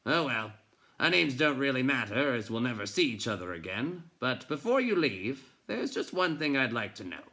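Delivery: pry into why he burst in; gruff probing. A narrator's reading. Bookseller presses the boy about running away, loud and gruff.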